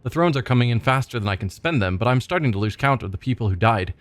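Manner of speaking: a lightly voiced vengeful boss reading his journal; a hint of a bitter gang boss; brooding crime boss. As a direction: grumble through it like a shady trader with a grudge. Reads gang boss journal in character.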